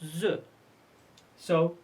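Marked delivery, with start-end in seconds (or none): 0.0-0.4 "z" sounded out by itself. Shown as a demonstration. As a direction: give "z" as a buzzing sound, not a letter name. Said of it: "but it is pronounced z".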